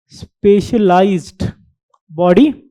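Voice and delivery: "specialized body" drawn out slowly, word by word; slow down on "specialized", brief pause before "body"; deliberate emphasis. Real, not acted. Lecturer stressing a key term for students, slow and deliberate. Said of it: "give the emphasis on the word".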